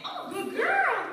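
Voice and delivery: drawn-out high, loud praise; dog praise voice; high slow praise. Real, not acted. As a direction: gush over the dog, slowly.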